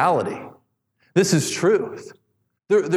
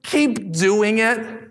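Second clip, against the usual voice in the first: earnest plea; 7 semitones higher than usual. Acted. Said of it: "he's saying".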